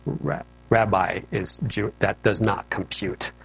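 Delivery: slow, mechanical readout; does not compute. Retold or imitated. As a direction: spell it out slowly like a machine error. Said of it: "imagine a pilot reading a checklist".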